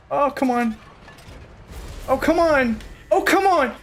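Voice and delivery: rising exasperation, pitch climbing with each "Oh, come on"; exasperated groan. Real, not acted. Gamer groaning at a teammate, exasperated.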